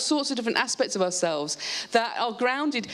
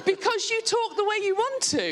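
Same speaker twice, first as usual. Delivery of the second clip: high, laughing through the line; real amused laughter; 11 semitones higher than usual. Real, not acted. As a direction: say it while still laughing. Laughing after the study result.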